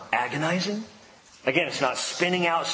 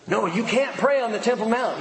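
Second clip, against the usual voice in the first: mock authority voice; 9 semitones higher than usual. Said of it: "tell you to stop".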